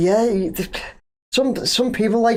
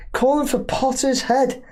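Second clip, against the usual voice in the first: incredulous echo; 7 semitones higher than usual. Real, not acted. Host repeating the fans' demand back, incredulous and higher. Echoing the comment in disbelief.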